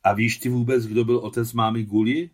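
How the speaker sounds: loud, sudden angry challenge; furious question. A narrator's reading. Adam suddenly challenges the boy about the grandfather, furious. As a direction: snap the question at him loudly. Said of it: "zeptal se najednou vztekle Adam".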